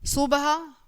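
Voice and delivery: "सुबह" with long U and ending, soo-ba-ha; misspelt option. Shown as a demonstration. Teacher reads children a quiz option, "सुबह" as soobaha. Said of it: "शुद्ध शब्द कौन सा है".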